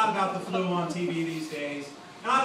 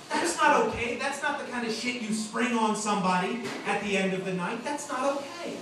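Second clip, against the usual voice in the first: indignant; 4 semitones higher than usual. Real, not acted. Comic outrage at date.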